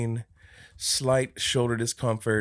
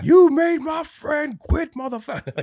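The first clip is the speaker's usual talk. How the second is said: creepy voice; 8 dB louder than usual. Retold or imitated. The Future ghost, pissed off, in a creepy voice. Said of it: "the creepy voice".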